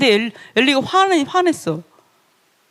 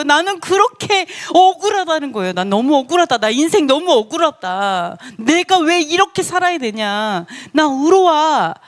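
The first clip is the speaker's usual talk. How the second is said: aggrieved lament; 3 semitones higher than usual. Retold or imitated. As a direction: plead your case, stretching the phrase endings. Acting out Job's aggrieved lament. (억울함을 길게 늘여 하소연하는 흉내)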